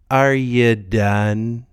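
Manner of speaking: very slow, drawn-out Are you done; mock Galecki. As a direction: drag each word out deadpan. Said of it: "and goes".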